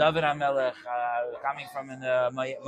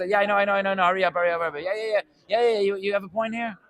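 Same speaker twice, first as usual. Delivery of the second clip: high, loud, rushed hurry up; mock a listener who already knows it all; hammed-up impatience, pushing to get on with it; impatient brush-off; 6 semitones higher, 5 dB louder, much faster than usual. Rebbe impatiently hurrying the teller.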